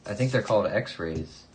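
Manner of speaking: dry sarcastic quip; deadpan joke answer. Real, not acted. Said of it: "that was very sarcastic".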